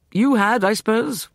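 high, loud challenge; demanding. A narrator's reading. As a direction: demand it hotly. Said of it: "Walter demanded".

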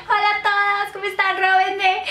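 high, giggly mock-naive greeting; self-mocking squeal of oblivious cheer; clueless airhead. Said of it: "yo como una pendeja".

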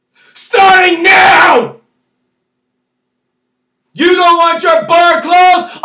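furious high shout, near crying at the end; angry shouting. Real, not acted. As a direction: yell the demand in real anger. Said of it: "I'm sorry for being so angry".

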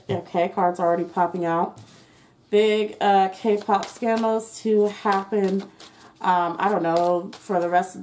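talking through a face mask; muffled, mask over mouth. Real, not acted. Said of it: "I have a mask on, that's why I sound muffled".

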